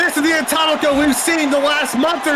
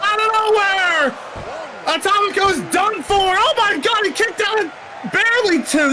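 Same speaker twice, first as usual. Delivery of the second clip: excited; 5 semitones higher than usual. Real, not acted. Commentator reacts to near fall.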